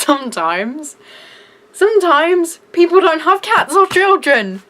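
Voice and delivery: ordinary delivery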